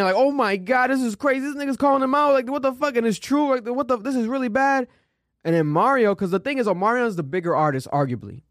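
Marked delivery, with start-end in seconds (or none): 0.2-4.9 higher, amused retelling of their disbelief at the stage; mock shocked disbelief. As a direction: replay the laughing shock of watching it live. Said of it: "me and Edwin were dying".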